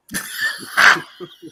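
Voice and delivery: high airy laughter; real laugh; breathy laugh. Real, not acted. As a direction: wheeze with laughter. Laughing at Pete calling.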